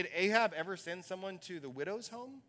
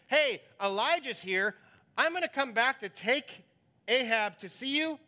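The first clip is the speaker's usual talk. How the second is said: indignant Obadiah; 4 semitones higher, 4 dB louder than usual. Preacher voices Obadiah's complaint.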